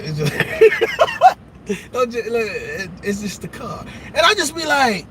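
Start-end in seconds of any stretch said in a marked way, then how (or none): 0.0-3.8 dismissive brush-off. Retold or imitated. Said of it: "Like they do their hand".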